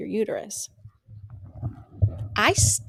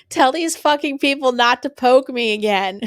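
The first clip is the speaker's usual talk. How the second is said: retold demand; 4 semitones higher, 7 dB louder than usual. Retold demand after being poked.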